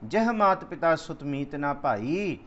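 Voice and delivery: slow, measured recital of the verse; scripture recitation. Acted. Preacher reciting gurbani to the congregation, slow and measured. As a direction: draw each word out like sacred text.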